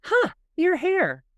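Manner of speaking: high, loud, slow drawn-out huh; hammed-up puzzled husband at new hairdo; mock husband remark. Imitating husband eyeing her new haircut, drawn-out. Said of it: "he goes".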